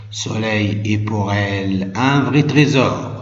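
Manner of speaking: declaimed verse, stanza openings ringing out; teacher's emphatic poem reading; poem recitation. Shown as a demonstration. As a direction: recite it with firm projection, easing down at each stanza's close. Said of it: "la lecture de ce poème".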